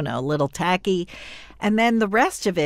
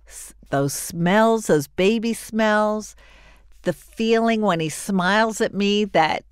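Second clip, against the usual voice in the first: gushing; 3 semitones higher than usual. Real, not acted. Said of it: "I'm calming down now".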